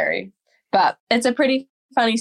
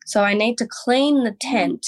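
airy voice. Retold or imitated. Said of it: "she's doing it in this very airy voice".

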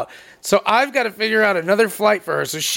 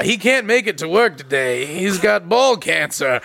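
slow, lowered doctor's note voice; deadpan sick-note; 4 semitones lower, slower than usual. Pretend. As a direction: read the bad news slowly, like a fake doctor. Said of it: "be like".

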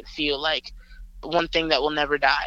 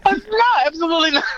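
emphatic refusal; 13 semitones higher, 6 dB louder than usual. Real, not acted.

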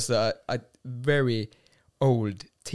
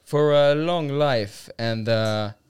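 dramatic toast; 2 semitones lower, slower than usual. Pretend. Toasting friends with a grim, slow flourish. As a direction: raise a glass like a grim old warrior. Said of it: "I always wanted to say that".

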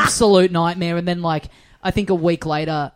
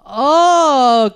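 high, loud, drawn-out fake enthusiasm; forced politeness; 9 semitones higher, 6 dB louder, much slower than usual. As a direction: stretch it out as an awkward, reluctant thank-you. Retold awkward reaction to unwanted gift.

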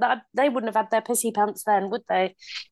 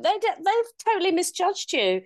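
playful hype; 7 semitones higher than usual. Pretend. Joking superhero fantasy, raised pitch.

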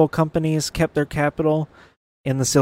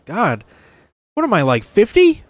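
hoarse, raspy real voice; rough scratchy throat, a smoker's rasp; 9 semitones higher, 9 dB louder than usual. Real, not acted. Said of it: "Why is my voice so bad?".

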